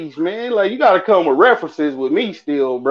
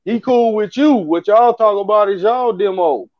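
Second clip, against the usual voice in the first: higher pitched, exasperated scolding; retold cussing out; 5 semitones higher than usual. Partner sent a stranger, higher exasperated scolding. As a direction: vent at the partner, voice up. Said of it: "I started to cuss him out".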